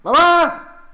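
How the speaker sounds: high, drawn-out yell for mamá; calling out to mamá. Real, not acted. Child calling mamá after winning, high yell. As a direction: yell for your mother in another room. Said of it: "le grito a mamá".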